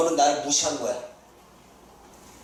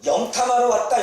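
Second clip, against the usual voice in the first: startled exclamation; 6 semitones higher than usual. Retold or imitated. King's suspicion acted.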